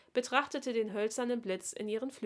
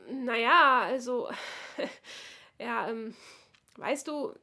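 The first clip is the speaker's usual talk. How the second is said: nervous halting start, higher, then pushing through; a shy boy fumbling for words; stammering; 4 semitones higher, 6 dB louder than usual. A narrator's reading. Oskar to Bertha about his gift, stammering nervously. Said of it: "stammelte er".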